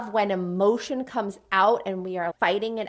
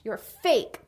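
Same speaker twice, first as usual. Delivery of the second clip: mildly angry accusation. Acted. Acted fight scene with punches.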